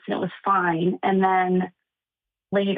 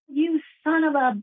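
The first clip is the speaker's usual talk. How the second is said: retold screaming; 7 semitones higher, slower than usual. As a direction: imitate an outraged woman's scream without full volume. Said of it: "starts screaming".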